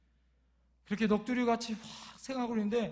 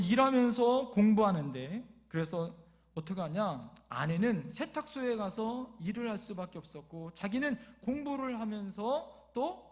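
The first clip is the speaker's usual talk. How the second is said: ordinary delivery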